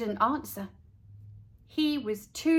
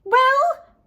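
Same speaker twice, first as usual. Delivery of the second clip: high, loud impatient rising question; 9 dB louder than usual. A narrator's reading. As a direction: demand an answer right now. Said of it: "asked Leslie impatiently".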